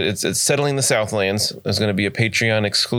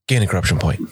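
ominous GM line; 3 semitones lower, faster than usual. Shown as a demonstration. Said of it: "I just sit in the chair and I just go".

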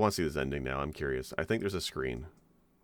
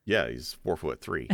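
laughing; 2 semitones lower than usual. Real, not acted. Laughing at Little Mac joke.

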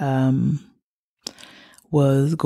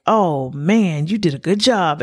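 imitating grandfather's gushing praise, higher and lilting; doting praise; 3 semitones higher than usual. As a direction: cheer on a small child, sing-song and proud. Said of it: "praised me for everything that I did".

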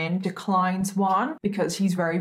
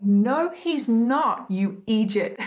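attempted Irish accent; 3 semitones higher, slower than usual. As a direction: drag out a clumsy Irish accent on idiot. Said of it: "I did not say that right at all".

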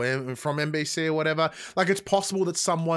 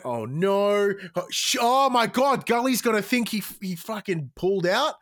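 higher, rising alarm through the whole quote; mock panic; 4 semitones higher than usual. Retelling his reaction to the botched finish, mock panic. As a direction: replay the panic of watching it happen. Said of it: "And then I went".

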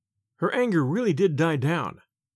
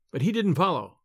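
plain reading voice

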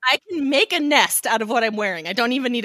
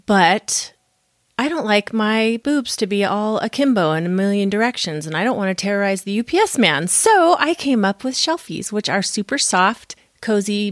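podcast ad read; 2 semitones lower than usual. Real, not acted. Host reads own product ad.

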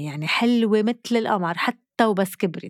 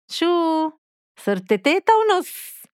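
shocked; 8 semitones higher, slower than usual. Retold or imitated. Grandmother shocked by the second grandchild.

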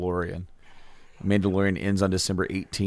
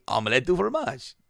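mildly happy cartoon imitation; a touch of cheer, lightly acted; 3 semitones higher than usual. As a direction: say it as a contented cartoon boy. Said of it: "He's happy".

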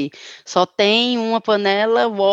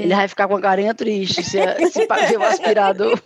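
laughing. Real, not acted. Joking about sad old vacuum.

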